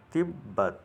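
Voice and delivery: تبت with the ب held and said twice, tab-bat; doubled b. Shown as a demonstration. Teacher shows students the doubled ب in تبت, clear tab-bat. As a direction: lean on the doubled ب in تبت, half then full. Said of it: "ب کو دو مرتبہ پڑھیں گے".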